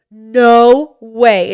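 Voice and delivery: loud, drawn-out astonishment; amazed recognition, acted out; stunned disbelief. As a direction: let the realization burst out loudly. Friend realizes who it is.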